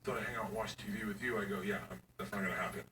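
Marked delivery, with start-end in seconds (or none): 0.0-1.4 soft, low stammering plea; whiny plea. Retold or imitated. Daughter begging dad to stay up, softly. 1.6-2.8 low, soft, fast deadpan; dry refusal. Retold or imitated. Dad refusing daughter's request, deadpan.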